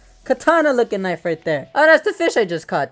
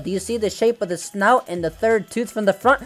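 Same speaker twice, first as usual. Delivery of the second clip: pedantic corrector. Acted. Voices a pedantic viewer correcting him.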